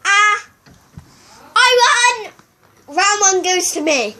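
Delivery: high, loud victory cheer; excited win. Real, not acted. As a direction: shout it out in triumph. Wins the eating race.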